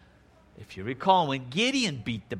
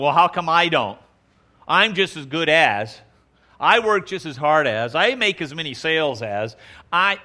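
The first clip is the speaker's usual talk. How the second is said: mock complaining employee; 4 dB louder than usual. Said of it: "and they're always complaining".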